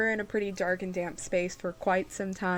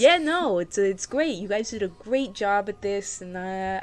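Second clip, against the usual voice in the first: gnome shopkeeper Wartor; 5 semitones higher, 4 dB louder than usual. Acted.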